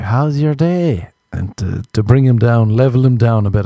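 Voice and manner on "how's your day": slow, bright-eyed upbeat question; chirpy coffee guy greeting; enthusiastic barista. Retold or imitated. Imitating the too-keen coffee server, cheery and slow. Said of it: "He was like".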